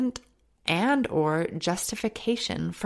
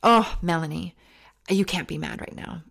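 self-scolding. Retold or imitated. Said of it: "I would always say".

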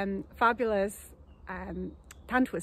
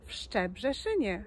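one word at a time. Shown as a demonstration. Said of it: "one word at a time".

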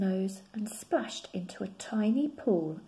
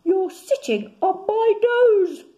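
gasping; 12 semitones higher, 12 dB louder than usual. Acted. Bear gasps at the rabbit sitting on his nose. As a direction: squeeze it out as if squashed. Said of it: "gasped Little Brown Bear".

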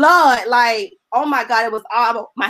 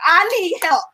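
crying out; 2 semitones higher than usual. Retold or imitated. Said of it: "I cry like".

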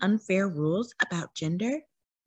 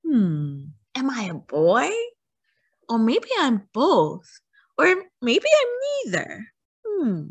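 wondering aloud; 3 semitones higher than usual. Pretend. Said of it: "It's okay to wonder".

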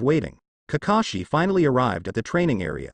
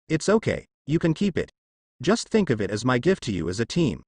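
shy smile. Acted. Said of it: "with a light smile and a blush".

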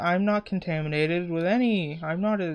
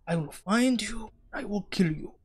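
higher, soft mock Asian accent; 4 semitones higher, 3 dB quieter than usual. Gamer vowing revenge on the game's killer, mock Asian accent. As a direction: threaten in a put-on Asian accent. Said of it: "said it like I'm Asian".

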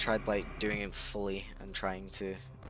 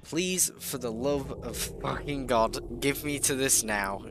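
desperate pleading; 3 semitones higher than usual. Real, not acted. Desperate begging at game.

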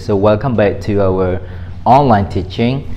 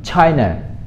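"China" with "Chai" up, then falling; stress on CHAI; 3 semitones higher than usual. Shown as a demonstration. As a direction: lift "Chai" in "China" and let "na" drop. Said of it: "So Chai is up in there".

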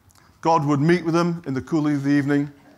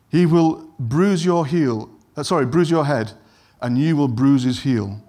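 solemn scripture reading. Acted. Preacher reads God's words to the serpent, solemn and heavy. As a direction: pronounce the words like a judgement.

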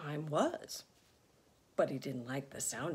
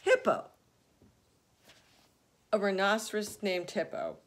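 delighted disbelief; 3 semitones higher, 6 dB louder than usual. Acted. Fluffy laughing at the name.

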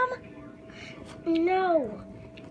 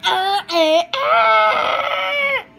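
high playful yells; high shouting; 10 semitones higher, 11 dB louder, much slower than usual. Real, not acted. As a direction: yell it out high. Singsong yell.

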